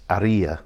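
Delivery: Aria as a-REE-a, slowly, no H; silent H. Shown as a demonstration. Guide summing up his village's name, slowly with silent H. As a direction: draw out Aria with the middle I stressed. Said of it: "you don't pronounce the H".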